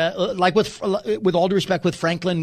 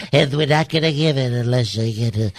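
evil Trump. Acted. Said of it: "evil Trump".

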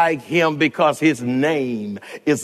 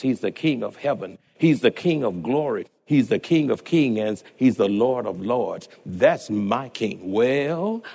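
sermon reading. Acted. Pastor reading the That's My King excerpt aloud to the church. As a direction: read it steady and reverent, building the list.

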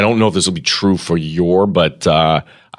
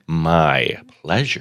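rote politeness; 5 semitones lower, 4 dB quieter, much slower than usual. Retold or imitated. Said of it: "would say".

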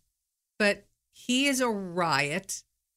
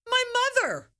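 tags 1; 3 dB louder than usual. Retold or imitated. Her reply in retold story.

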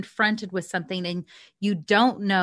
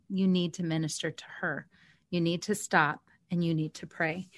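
softly voiced, slightly lowered; quiet retold whisper; 2 semitones lower, 7 dB quieter than usual. Speaker relaying God's whisper to her heart, softly voiced. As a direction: soften it, as if relaying a quiet prompting. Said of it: "I heard very quietly in my heart".

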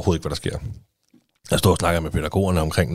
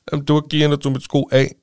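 lightly voiced small boy, a bit higher; a hint of a hurt little boy telling who did it; imitating her little son; 6 semitones higher than usual. Mother retelling her son's complaint to the other parent, lightly higher child voice.

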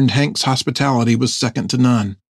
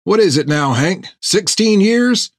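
put-on old sailor voice; 8 semitones higher than usual. Topper teasing Hank.

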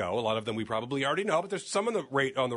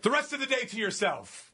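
retold reply; 9 semitones higher than usual. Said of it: "I knew I was gonna get ripped for that".

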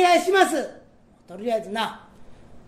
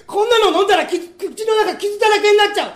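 whimpering protest; 4 semitones higher than usual. Acted. Underling fears swallowing the dagger.

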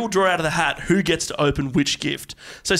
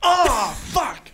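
surprised; 10 semitones higher than usual. Real, not acted. Loses the draw.

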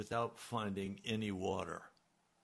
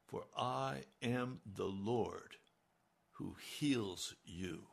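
tender; 3 semitones lower, 4 dB quieter, slower than usual. Shown as a demonstration. Slow reading of God's promise.

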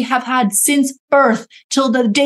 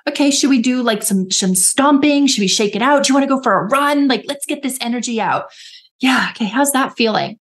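encouraging self-talk; 2 semitones higher than usual. Shown as a demonstration. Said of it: "I literally speak to myself this way".

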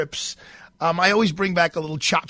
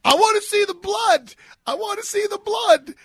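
put-on much higher, louder kid's eager yell; excited little boy; 4 dB louder than usual. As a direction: shout it like a thrilled five-year-old. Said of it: "all he's saying is".

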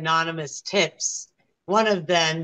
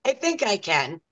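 drawn-out, higher "yeah", then easing down; imitated juror; 8 semitones higher, slower than usual. Juror answering the judge, mock hesitant agreement. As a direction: lightly mimic a juror giving in. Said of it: "they're like".

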